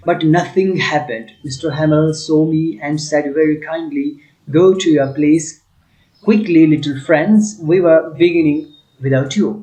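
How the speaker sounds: slow, deliberate text reading for the class; slow reading aloud. Acted. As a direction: read each phrase slowly for students. Teacher reads English text aloud. (धीमी आवाज़ में पाठ पढ़ना)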